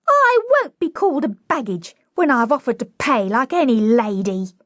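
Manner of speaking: high, hurt cockney protest; wounded whimpering. A narrator's reading. Flower girl called a baggage, wounded whimper. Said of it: "Wounded and whimpering".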